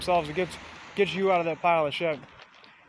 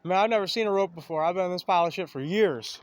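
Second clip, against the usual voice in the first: mock amazement; 5 dB louder than usual. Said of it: "They say".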